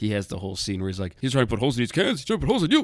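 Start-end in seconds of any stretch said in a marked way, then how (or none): 1.2-2.8 terrible put-on voice, high, swooping and bouncing. Retelling a movie scene about someone shooting cans: terrible Jackie Mason impression. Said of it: "It's probably a terrible Jackie Mason impression".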